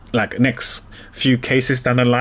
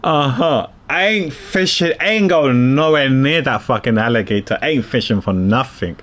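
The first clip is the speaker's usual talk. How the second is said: detective character voice. Acted. Reads detective character lines.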